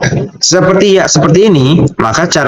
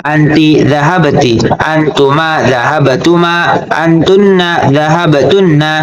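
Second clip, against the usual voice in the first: measured, evenly paced recitation; teacher reciting a grammar table; conjugation drill. Shown as a demonstration. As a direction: recite each pronoun and verb form steadily, drawing out the endings.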